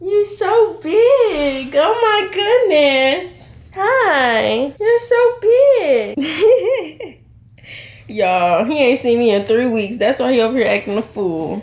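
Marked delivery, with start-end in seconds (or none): 0.1-7.2 slow, stretched adoring coo. Real, not acted. Mother amazed how big her baby got, gushing coo. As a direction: draw the words out in delighted wonder.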